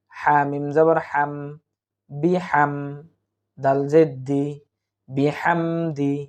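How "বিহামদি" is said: বিহামদি said slowly with every syllable stretched; drawn-out reading. Shown as a demonstration. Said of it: "তাহলে".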